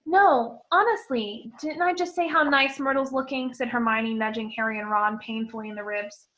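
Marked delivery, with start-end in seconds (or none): 0.0-3.5 loud anxious protest; flustered loud denial; insistent. Acted. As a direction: insist too hard.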